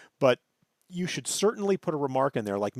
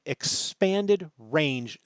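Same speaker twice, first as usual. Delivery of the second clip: "expanded" picked out with emphasis; stress on EXPANDED; much slower than usual. Real, not acted. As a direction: make "expanded" stand out from the sentence. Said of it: "make sure that I'm stressing".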